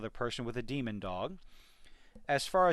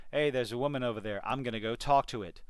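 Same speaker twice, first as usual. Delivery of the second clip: mock clueless man; 2 semitones lower, faster than usual. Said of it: "Men do not sit there and go".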